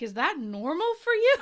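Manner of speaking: giggling while quoting the wife; laughing through a quote. Retold or imitated. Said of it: "she's like".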